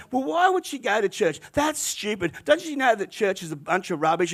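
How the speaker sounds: a touch of mock disdain, lightly voiced; scornful gossip. Cafe local sneering at churchgoing, mild mock scorn. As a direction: dismiss church as silly, half-acted. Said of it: "they were just ragging on it".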